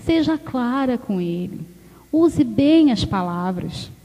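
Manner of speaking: soft, low, slow and gentle; a calm fatherly word to his daughter; gentle divine whisper of advice; voice of God. Retold or imitated. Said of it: "Deus tá falando assim comigo".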